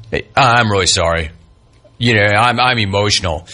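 low, subdued imitation of an apology; mock apology. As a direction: mimic a half-hearted sorry. Mimics the player's meek apology.

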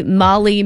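MALI as "MAH-lee"; trying another pronunciation. Shown as a demonstration. Co-host guessing at a stranger's first name, trying another pronunciation. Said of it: "don't know how to pronounce".

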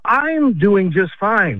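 ordinary delivery

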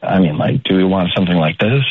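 low, gravelly seductive voice; low gravelly sexy voice. Pretend. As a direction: drop into a gravelly come-on voice. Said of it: "we're a little low, we're a little gravelly".

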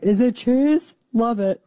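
gleeful cheese lover. Retold or imitated. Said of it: "I'm like".

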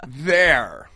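bouncy Yoda voice, rising on "a"; laughing Yoda impression, Canadian accent. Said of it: "It was Canadian Yoda".

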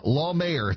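"Law" stressed as the first syllable. Real, not acted. Host corrects the pastor's surname, stress on "Law". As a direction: lean on "Law" in "Law Mayor". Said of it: "put heavy emphasis on law".

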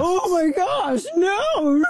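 high, slow fake outrage shout; hammed-up horror at a beer toast; mock shocked gasp. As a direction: gasp it out like a scandalized pearl-clutcher. Mock outrage at gold medal beer.

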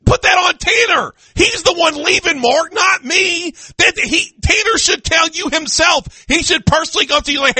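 why is this my job, Mark; mock outrage. Real, not acted. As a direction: blast him in playful outrage.

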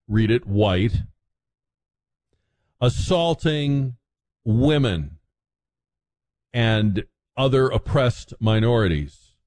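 slow, mock-solemn sarcasm; tongue-in-cheek sarcasm. Host sending up the frat-guy witch hunt story, sarcastic. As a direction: spell it out word by word, tongue in cheek. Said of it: "obviously I'm being sarcastic".

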